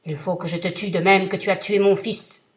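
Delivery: thundering vengeful genie; terrible genie voice. Acted. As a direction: roar it down at him like a giant. Genie insists.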